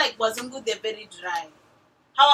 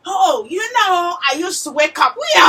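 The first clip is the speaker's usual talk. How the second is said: storytelling grandmother; 3 semitones higher, 6 dB louder than usual. Retold or imitated. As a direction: stretch the words like granny spinning a yarn. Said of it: "the grandmother is telling you a story".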